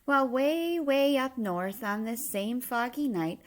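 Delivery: usual speaking voice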